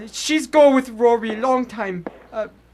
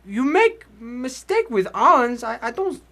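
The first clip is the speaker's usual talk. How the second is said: put-on weak old immigrant; 2 semitones higher than usual. Old immigrant in hospital bed.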